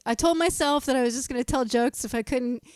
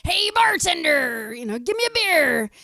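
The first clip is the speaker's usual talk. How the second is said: pirate voice; 4 semitones higher, 4 dB louder than usual. Retold or imitated. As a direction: ham it up like a pirate. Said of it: "he's like".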